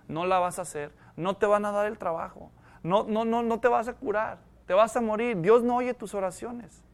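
softened, insinuating inner voice; insinuating thoughts. Acted. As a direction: plant the doubts quietly, one after another. Acts out Satan's discouraging thoughts.

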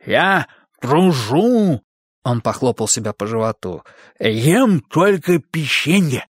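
slow, drawn-out friendly monster. Acted. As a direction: play the cookie-loving monster. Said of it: "изображая чудовище". (голос доброго чудовища)

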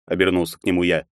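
usual speaking voice

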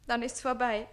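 slow, pining lament; lovesick sigh. Acted. Page to Susanne, slow lovesick lament. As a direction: sigh it out, heartbroken.

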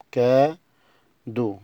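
كادو drawn out very slowly, ka-DO, ending o; slow model word. Shown as a demonstration. Teacher shows cadeau ends in o sound, slowly. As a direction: stretch كادو slowly, final o. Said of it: "آخر تلات حروف بينطقوا أو".

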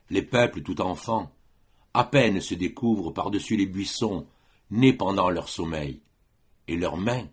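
measured verse reading with pauses between phrases; poetry recitation. Acted. Lecturer quoting Vigny's poem on poésie, recited as verse. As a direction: recite solemnly, line by line.

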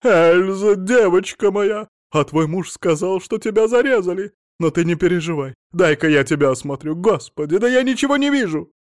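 loud, very high shrieking mother; mother-in-law fussing over her daughter, a loud shriek; desperate cry. Acted. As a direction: wail it out, frantic with alarm. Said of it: "отчаянный крик".

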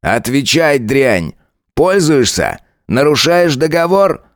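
a lightly voiced sneering cop, slow and taunting; mocking lieutenant. Lieutenant Saigar mocking Tanya, lightly voiced sneer. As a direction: lean into the lines like a smug bully.

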